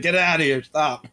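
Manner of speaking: high-pitched amused plea to stop; laughing protest. Acted. Duelist begging her to put the lamprey away, laughing protest.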